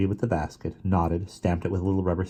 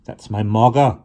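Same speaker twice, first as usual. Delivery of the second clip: soft country voice; 4 semitones higher, 8 dB louder than usual. A narrator's reading. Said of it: "in her soft country voice".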